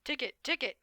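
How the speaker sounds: high, loud call of a name; calling out urgently for a friend; shouting a name. A narrator's reading. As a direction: yell the name out to find someone. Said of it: "It's shouting your name".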